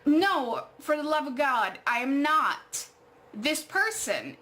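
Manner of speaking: retold exasperation, slowing into emphatic words; exasperated refusal. Woman telling a stranger he has the wrong person, retold exasperation. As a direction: drag out the last words as if fed up.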